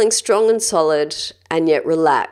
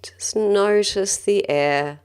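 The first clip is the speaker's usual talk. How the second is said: calm, gentle guided-breathing voice; measured meditation guide, leaving space between phrases. Acted. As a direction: lead them through breathing with long, unhurried pauses.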